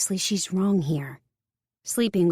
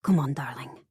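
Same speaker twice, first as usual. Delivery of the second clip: put-on French accent; 4 semitones lower than usual. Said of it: "Her French accent".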